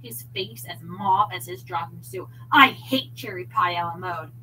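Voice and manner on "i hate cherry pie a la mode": loud, choked-up shout. A narrator's reading. Husband shouting at wife over pie, loud and choked. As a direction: blurt it out, near tears. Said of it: "David shouted".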